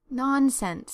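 vexed. Acted. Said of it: "vexed at herself".

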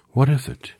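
high, loud surprised question. A narrator's reading. Dorothy asks the Mouse Queen in surprise. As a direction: ask it amazed. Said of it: "answered Dorothy in surprise".

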